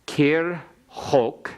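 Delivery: "Kir chok" said slow as two beats, no vowel after the k; silent schwa. Shown as a demonstration. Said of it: "it's got a silent schwa under the resh".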